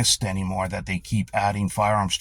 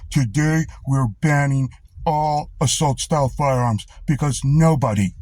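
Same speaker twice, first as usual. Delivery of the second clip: mocking Trudeau; 2 semitones higher than usual. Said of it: "in front of a camera fast enough to go".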